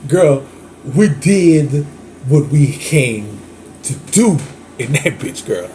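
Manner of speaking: slow, drawn-out crooner delivery; a hint of a smooth soul crooner; heavy crooner voice. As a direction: croon it like a lazy love song. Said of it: "my fat" crooner voice.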